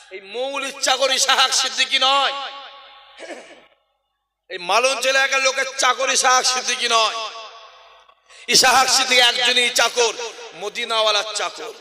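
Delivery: ringing preacher's proclamation; defiant preaching. Real, not acted. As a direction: declare your allegiance to the crowd. Preacher declares whom he serves.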